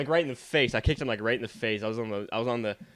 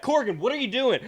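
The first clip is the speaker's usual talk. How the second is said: imitated teacher; 13 semitones higher, 4 dB louder than usual. Teacher voiced in story.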